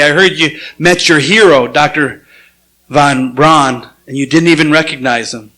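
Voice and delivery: understated sarcasm from a father; retold dry jab, lightly acted; mildly mocking, as a retold remark; sarcastic. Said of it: "says to him sarcastically".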